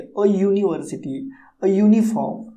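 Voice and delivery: "अ यूनिवर्सिटी, अ यूनिफॉर्म" with a clear Y after each article; opening Y sound. Shown as a demonstration. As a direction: model both nouns, "यूनिवर्सिटी" and "यूनिफॉर्म", starting on य. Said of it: "य का sound निकल रहा है". ("यूनिवर्सिटी" और "यूनिफॉर्म", य की आवाज़ से)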